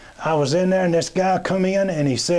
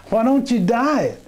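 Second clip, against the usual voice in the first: laughing question; 7 semitones higher than usual. Retold or imitated. Teller's own retold punchline question.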